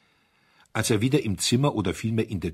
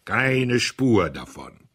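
even slower, loud, final and merciless; judge's verdict; 3 semitones higher, 5 dB louder, much slower than usual. Acted. Audley repeating his verdict to the diners like a judge. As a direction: pronounce it like a death sentence. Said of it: "wie ein Richter, der ein Todesurteil ausspricht".

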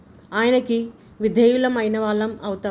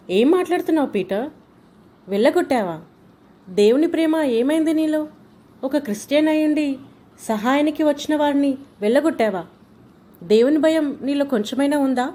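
higher, shocked reproach at her son; indignant scolding; 4 semitones higher than usual. Acted. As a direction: scold him, outraged and hurt. (కొడుకును తిడుతున్న తల్లి, ఆవేశంగా)

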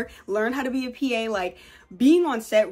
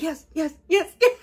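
eager laughing yes; 5 semitones higher, 4 dB louder than usual. Retold or imitated. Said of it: "And I'm like".

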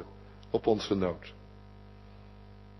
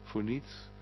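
soft, coaxing hush of God's invitation; whispering voice; 2 semitones lower, 6 dB quieter than usual. Acted. Preacher voicing God's gentle call to the listeners, softly coaxing. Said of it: "En dan de fluisterstem die zegt".

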